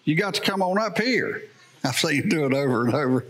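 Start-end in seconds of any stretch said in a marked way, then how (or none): 0.0-1.4 higher, coaxing call to come closer; lightly voiced Bob beckoning; Bob urging them forward. Bob urges hesitant people to come closer, higher coaxing call. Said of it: "and Bob said".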